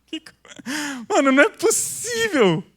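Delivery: high laugh into "não é possível"; real amused disbelief; incredulous laugh. Real, not acted. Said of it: "Isso é comédia".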